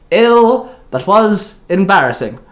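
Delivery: high, loud drawn-out "ew"; moaning disgust. A narrator's reading. Eli tosses the frying pan away, moaning in disgust. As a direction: moan it high, then ease down. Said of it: "Eli moaned".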